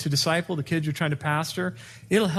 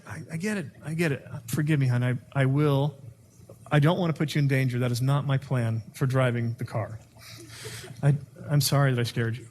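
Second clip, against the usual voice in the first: apologizing; 2 semitones lower than usual. Shown as a demonstration. Husband apologizing softly.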